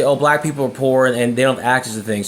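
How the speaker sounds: sweetly concerned; said nicely. Shown as a demonstration. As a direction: say it like you care. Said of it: "imagine saying that nice".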